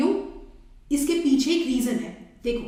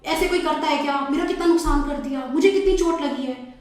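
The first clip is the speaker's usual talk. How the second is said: mildly raised, quick angry complaint; angry scooter rider; 3 dB louder than usual. Acted. Scooter rider scolding the car driver, mildly angry. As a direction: scold the driver who hit you, a touch louder. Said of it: "scooter वाला एकदम गुस्से में है".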